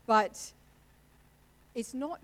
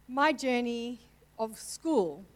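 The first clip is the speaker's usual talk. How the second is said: slow, louder words forced out through tears; choked up; 8 dB louder, much slower than usual. Real, not acted. Telling the church about her school days, choking up. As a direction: push the words past a lump in the throat. Fighting tears mid sermon.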